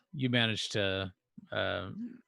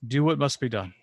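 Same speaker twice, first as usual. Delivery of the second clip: commanding priest; 3 semitones higher, 4 dB louder than usual. Acted. GM as priest orders the killing.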